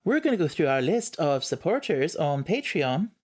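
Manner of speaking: half-hearted Scottish lilt for the list; weak Scottish accent. Acted. Reading the patron list to listeners, mild Scottish accent. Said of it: "It's not a very good accent".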